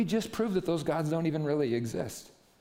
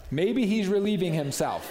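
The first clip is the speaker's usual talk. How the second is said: higher, louder sarcastic jeer; mocking taunt; 6 semitones higher, 4 dB louder than usual. Preacher repeating Elijah's taunt for the crowd, high jeer. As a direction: savour the insult. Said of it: "He's talking trash to them".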